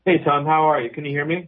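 speakerphone sound; talking over a speakerphone. Real, not acted. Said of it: "It sounds like you're on a speakerphone".

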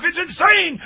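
high shouted huckster pitch; used car salesman voice. Acted. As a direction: yell it like a late-night car ad. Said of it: "those used car salesman voices".

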